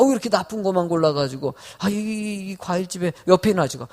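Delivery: ordinary talk, nothing marked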